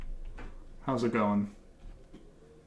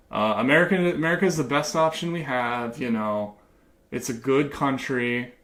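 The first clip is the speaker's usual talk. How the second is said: mock patriotic pandering. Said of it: "I'm gonna keep talking like this".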